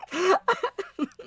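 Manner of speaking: high acted laugh; acted character laugh. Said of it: "lets out a laugh that basically sounds".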